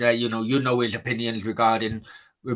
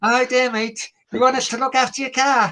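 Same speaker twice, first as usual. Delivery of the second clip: put-on loud, very high-pitched Scouse accent; 13 semitones higher, 5 dB louder than usual. Describing parking a car near the stadium, in a scouse accent. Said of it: "I'm doing a Scouse accent now".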